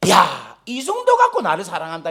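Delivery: sharp "hey" into a scornful complaint; mock indignation. Father inwardly objects to his son's love, in mock anger. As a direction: imitate an affronted dad protesting. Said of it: "화가 나는 거야".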